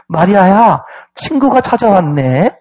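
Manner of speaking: acted sweet call to a sister; singsong, friendly announcement; brightly smiling voice. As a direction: call out pleasantly, with a put-on smile. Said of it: "활짝 웃는 목소리로".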